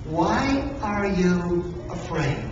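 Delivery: Jesus quietly asking his squirming disciples; gentle question. Acted. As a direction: ask it tenderly, searching their eyes. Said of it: "And he said".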